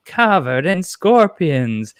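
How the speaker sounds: slow, ominous taunt; eerie villain. Retold or imitated. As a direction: draw it out like a creepy threat. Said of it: "she's, like".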